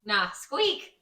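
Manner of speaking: squeaky mouse voice; mouse squeak. Acted.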